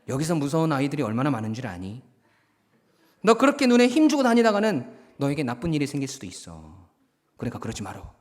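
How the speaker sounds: quick, mild would-be threat; toned-down warning. Acted. Cowed bully warning the new student, nuance softened. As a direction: hurry through a weakened warning. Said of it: "말하는 뉘앙스가 완전히 달라진 거예요".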